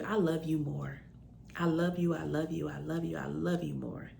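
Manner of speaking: softening, fading I love yous; tender. Real, not acted. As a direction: pour love into each repeat. Repeated tender I love you.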